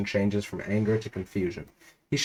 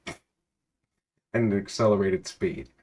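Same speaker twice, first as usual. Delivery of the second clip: laughing correction; much slower than usual. Real, not acted. Laughs while correcting misread.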